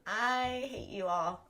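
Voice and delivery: slow, drawn-out mock wail through laughter; mock-hurt laughing whine. Streamer to teasing viewers, mock-hurt through laughter. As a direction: whine it tearfully, as if about to crack up.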